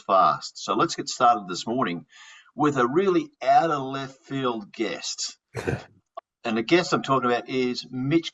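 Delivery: measured, presentational welcome with stressed key phrases; podcast host intro. Acted. Host welcoming listeners to a fraud podcast, presentational. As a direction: introduce the show and guest like a host.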